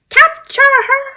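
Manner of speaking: high, loud yell; shouting capture order at the guards; shouted order. Pretend. Command to catch Alphaba.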